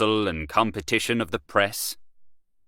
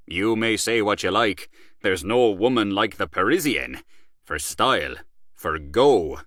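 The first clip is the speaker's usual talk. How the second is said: boastful Gallaher. Acted. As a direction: brag about Paris to an old friend. Gallaher praising Parisiennes.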